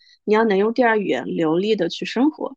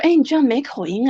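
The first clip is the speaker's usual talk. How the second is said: higher-pitched, mildly amazed quote; imitated surprise; 4 semitones higher than usual. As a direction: retell a backhanded compliment with mild amazement. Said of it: "这个惊奇的程度". (模仿略带惊奇的夸赞)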